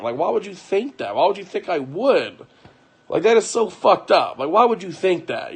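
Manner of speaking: high, loud indignant protest; indignant disbelief. Retold or imitated. Reassuring his wife, high indignant disbelief. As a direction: push back, hurt and baffled.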